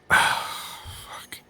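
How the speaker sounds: sighed, breathy whisper of defeat; whispered curse. Real, not acted. Gamer giving up on flat cargo, sighed whisper. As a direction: breathe it out under your breath.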